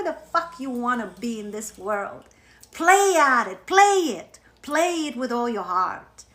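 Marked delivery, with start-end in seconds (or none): 2.7-6.2 loud, high, eager push to play; rally them to just play; fired-up urging. Real, not acted. Coach urging her followers, loud and eager.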